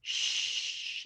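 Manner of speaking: "Sh" as a long voiceless hush; isolated digraph sound. Shown as a demonstration. Teacher demonstrating a consonant digraph, held out. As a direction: hold "Sh" alone, no vowel. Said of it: "is the consonant digraph".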